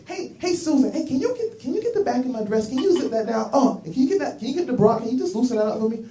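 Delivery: lightly voiced girlfriend, breezy and sweet; chatty woman. Woman asks her friend in the car to unzip her dress, breezy girly voice.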